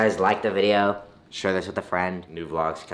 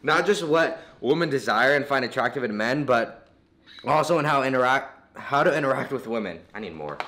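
helium voice. Real, not acted. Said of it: "sounds like a fourteen-year-old version of him".

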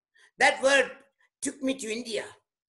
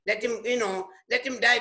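indifferent shrug; 3 semitones lower than usual. Retold or imitated. Preacher voices an uncaring Paul about the jailer, low shrug. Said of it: "he could say".

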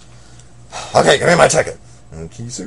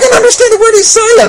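shouting; 12 dB louder than usual. Acted. Loud shout.

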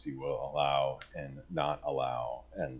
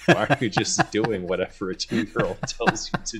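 disbelief; 6 semitones higher, 7 dB louder than usual. Retold or imitated. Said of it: "look of disbelief".

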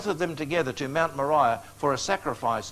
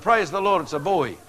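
retold joyful shout; 3 dB louder than usual. New father announcing his newborn son, joyful shout. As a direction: re-enact a proud father's shout. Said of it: "and I shouted".

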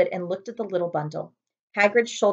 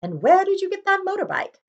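relieved; 12 semitones higher, 3 dB louder than usual. Acted. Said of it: "sounding relieved".

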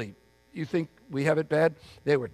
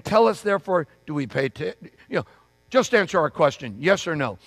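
pushy demand; 2 semitones higher, 6 dB louder than usual. Retold or imitated. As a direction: press him hard, demanding a straight answer. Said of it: "And so they're saying".

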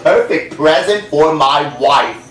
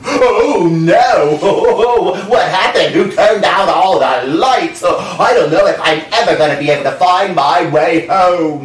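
a hammed-up frightened shout; panicked Anansi; 3 semitones higher than usual. Anansi alone in the dark sky, mock panicked shout.

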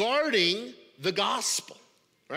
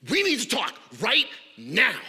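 louder urgent demand; hot and bothered; 2 semitones higher, 5 dB louder than usual. Retold or imitated. Angry email sender demanding a talk, urgent. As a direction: insist on talking now. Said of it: "someone who's, like, hot and bothered".

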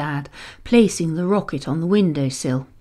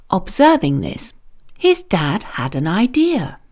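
ordinary delivery, nothing marked

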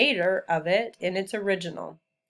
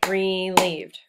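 "Relieved" drawn out in two beats; "Relieved" split firmly into two syllables; clapped syllables; 4 dB louder than usual. Shown as a demonstration. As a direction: clap out both syllables of "Relieved". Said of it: "Let's clap the syllables in relieved".

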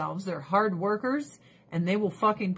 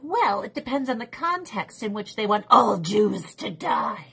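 a prissy, hedging mock voice; lightly mocking a college president dodging; mock evasive official; 3 dB louder than usual. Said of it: "They're like".

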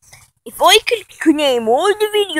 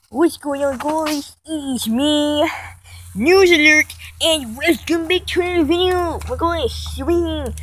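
lightly hammed-up news report; mock news reporter; 2 semitones higher than usual. Vlogger starting a news channel, lightly put-on reporter voice. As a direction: stretch key words like a parody anchor.

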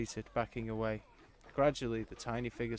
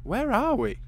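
demanding; 13 semitones higher, 10 dB louder than usual. Acted. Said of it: "Scylla demanded for the tenth time".

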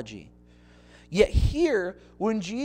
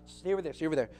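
a mild hushed scolding; hint of a scolding Peter. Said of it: "Pulls him aside".

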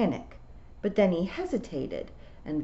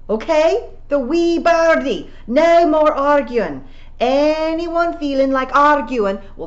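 commanding shout; 9 semitones higher, 10 dB louder, slower than usual. A narrator's reading. Rob commanding the clan.

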